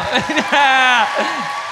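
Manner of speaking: loud, high burst of laughter. Real, not acted. Guest cracking up at own jab about an ex, loud laugh.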